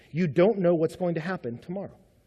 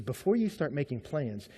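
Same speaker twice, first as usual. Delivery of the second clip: "Before you start making plans" said softer; quiet; 6 semitones lower, 8 dB quieter than usual. Shown as a demonstration. Preacher quoting James to the congregation in a softer voice. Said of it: "He says".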